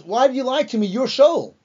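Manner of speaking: startled accusing cry, only half performed; retold scream. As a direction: cry out in alarm, lightly acted. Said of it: "the woman screams out".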